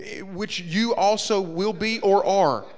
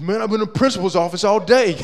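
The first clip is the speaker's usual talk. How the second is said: fed-up complaint; 5 semitones higher, 9 dB louder than usual. Retold or imitated. Angry Daniel complains.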